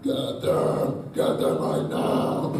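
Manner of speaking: forceful, unvoiced yell-whisper, slowed down; projected whisper. Shown as a demonstration. Actor shows cheat for a deep yell, projected whisper. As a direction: whisper it hard, as if yelling. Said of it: "a projected whisper".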